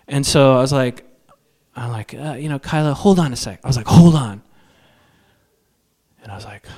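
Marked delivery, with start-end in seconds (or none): 2.6-3.6 higher-pitched, gentle check; mild interruption. Acted. Husband stopping his wife over the deal, mildly urgent. 3.9-4.4 loud, higher-pitched interruption; firm halt. Acted. Husband halting his wife before signing, loud and firm.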